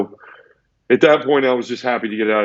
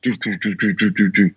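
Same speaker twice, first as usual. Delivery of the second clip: imitated door clunks. Former inmate recalling the door opening, imitated clunks. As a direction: mimic a cell door clunking open.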